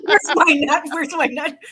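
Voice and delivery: frantic chipmunk hunting its nut. Retold or imitated. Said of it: "chipmunk voice".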